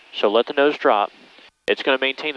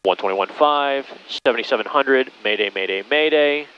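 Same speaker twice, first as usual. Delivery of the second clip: mayday radio call. Shown as a demonstration. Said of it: "declare an emergency".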